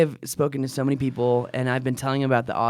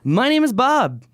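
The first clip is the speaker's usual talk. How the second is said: big booming announcer voice; fake announcer voice; 10 semitones higher, 4 dB louder than usual. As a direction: boom it like an arena announcer. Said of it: "I always like to do my fake announcer voice".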